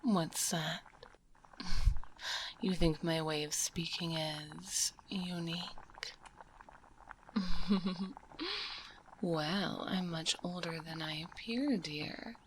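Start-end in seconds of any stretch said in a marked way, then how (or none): 1.5-2.6 a short breathy whispered laugh; witch chuckle. Acted. Witch amused by visitor's remark. 7.1-9.2 a longer airy laugh rising at the end; witch laugh. Acted. Witch laughs at "unique" speech.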